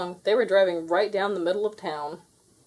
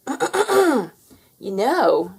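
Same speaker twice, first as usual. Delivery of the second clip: higher, louder sheep; 6 semitones higher, 5 dB louder than usual. A narrator's reading. Sheep clearing her throat to warn, higher voice. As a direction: say it primly after clearing throat.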